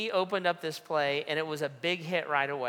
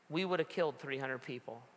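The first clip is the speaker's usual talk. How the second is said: soft, stunned realization; shaken and quiet; 7 dB quieter than usual. Retold or imitated. Pastor to fire marshal, stunned and soft. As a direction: say it hushed in horror. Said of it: "I looked at him and I said".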